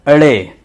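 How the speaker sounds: ड़े with a retroflex flapped r; "ड़े" said alone, clearly, with the ṛa sound. Shown as a demonstration. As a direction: flick the tongue back for the ड़ in ड़े. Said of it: "इसमें ड़ा की आवाज़ निकलने लगती है".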